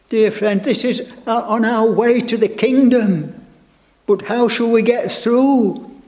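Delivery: rising, urgent sermon voice; fervent preaching. Acted. Preacher pleading with his flock, fervent and rising. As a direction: press the congregation hard.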